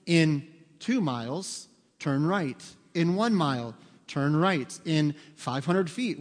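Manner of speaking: lightly voiced sat-nav, slow and measured; spaced-out turn-by-turn prompts; GPS navigation voice. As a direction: read out directions slowly like a GPS. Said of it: "guess what it's telling me?".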